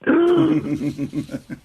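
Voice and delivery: high, sharp gasp of shock; sudden theatrical intake of breath; mock gasp. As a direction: gasp as if handed an impossible job. Acts out shock at dean's order.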